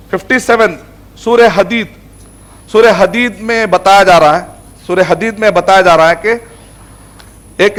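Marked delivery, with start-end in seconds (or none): 4.9-7.8 slowed down, each word laid out; teacherly slow emphasis; slow, deliberate repeat. Shown as a demonstration. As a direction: spell it out slowly for the class. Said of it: "repeated more slowly".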